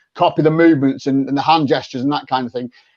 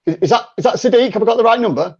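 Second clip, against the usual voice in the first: role play caller; 2 semitones higher than usual. Pretend. Caller phoning Sadiq in a role play, light cheery voice. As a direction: ring up a stranger with a friendly lift. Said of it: "I'm ringing you".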